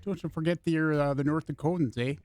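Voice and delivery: North Dakota accent with long O's; Midwest accent. Shown as a demonstration. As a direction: put on a folksy upper-Midwest lilt. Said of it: "that would be more of a Midwest".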